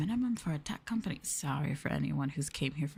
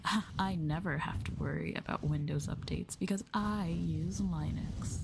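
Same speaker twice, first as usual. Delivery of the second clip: mock fancy person. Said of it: "Like a fancy person".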